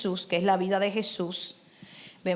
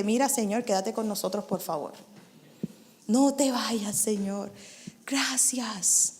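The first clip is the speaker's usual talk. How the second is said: softer, fading thankful plea; soft pleading prayer; 6 dB quieter than usual. Pretend. Townspeople should have begged Jesus softly. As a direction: beg the Lord gently to stay. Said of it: "Era para decirle".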